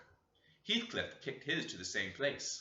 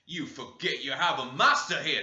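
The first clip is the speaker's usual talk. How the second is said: louder, stern master's voice; tyrant's warning; 8 dB louder than usual. Acted. Tyrant brother warning the children, loud and stern. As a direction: lay down the law like a house tyrant. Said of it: "says the tyrant".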